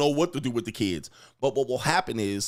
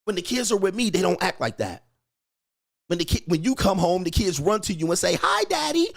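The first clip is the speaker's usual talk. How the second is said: higher, whiny mock wife; jealous wife; 6 semitones higher than usual. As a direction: imitate the wife's jealous complaint. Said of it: "She's like".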